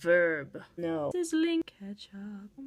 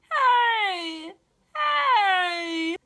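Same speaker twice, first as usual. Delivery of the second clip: repeated loud hey; loud calls; 7 semitones higher, 8 dB louder, much slower than usual. Real, not acted. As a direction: shout hey up high, loud. Calling out loudly.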